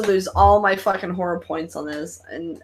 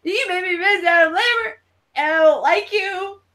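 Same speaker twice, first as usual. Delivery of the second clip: mock grudge; 10 semitones higher than usual. Retold mock grievance.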